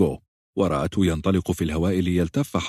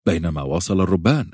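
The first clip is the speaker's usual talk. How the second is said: ordinary delivery, nothing marked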